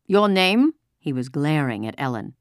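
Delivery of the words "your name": loud, high rising demand; harsh officer demanding an answer; barked question. A narrator's reading. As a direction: interrogate her sharply. Officer interrogates glaring at Ellen.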